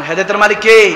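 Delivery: insistent preacher's question. Real, not acted. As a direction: push the question out for a response. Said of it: "আওয়াজ দেন".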